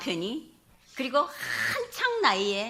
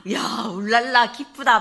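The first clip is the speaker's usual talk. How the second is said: excited whoop; 3 semitones higher, 8 dB louder than usual. Retold or imitated. Husband's happy whoop at the free checkup, hammed up. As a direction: cheer like a delighted husband.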